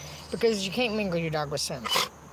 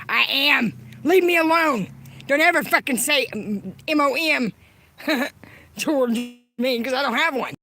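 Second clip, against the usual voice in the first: louder, higher, breaking into a shout; furious yell; 4 semitones higher, 7 dB louder than usual. Real, not acted. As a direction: scream at them to leave him alone. Yelling to be left alone.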